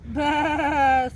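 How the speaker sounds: loud, wavering baa; sheep bleating. Acted. Sheep answers the kitten, loud bleat. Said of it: "said the sheep".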